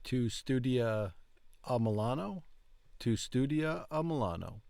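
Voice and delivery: Tu studia a Milano? rising on Milano; questioning rise. Shown as a demonstration. Learner repeating the app's question with a rising end. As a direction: end Milano on a lift like asking. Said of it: "we use rising intonation at the end".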